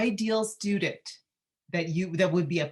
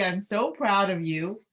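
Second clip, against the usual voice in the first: emotional; 4 semitones higher than usual. Real, not acted. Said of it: "today I'm so emotional".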